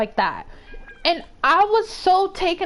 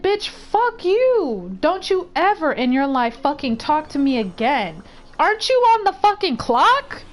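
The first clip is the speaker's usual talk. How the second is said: heated retort. Retold or imitated. Gym-goer telling off the rude staffer, heated retold anger. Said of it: "I was so heated".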